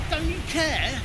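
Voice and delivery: loud, high, pleading yell; desperate shout. Acted. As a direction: cry out desperately. Disciples waking Jesus in storm.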